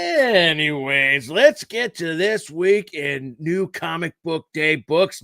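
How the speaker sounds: slow, dramatic trailer announcer; movie trailer voice. Shown as a demonstration. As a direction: deliver it like an epic movie trailer. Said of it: "That's my, uh, movie trail voice".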